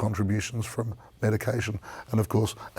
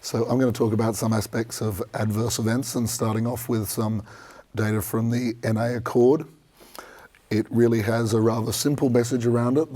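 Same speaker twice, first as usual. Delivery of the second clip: hoarse from a sore throat; speaking through a croaky throat. Real, not acted. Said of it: "excuse my croaky voice".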